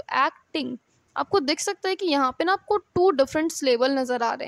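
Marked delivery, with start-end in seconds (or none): 0.0-0.8 एक्टिंग in two separate syllables, एक then टिंग; split into syllables. Shown as a demonstration. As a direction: break एक्टिंग after एक, sounding each part. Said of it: "जब आप इसको pronounce करेंगे".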